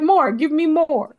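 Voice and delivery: high, slow greedy diva voice; demanding diva. Retold or imitated. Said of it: "be like".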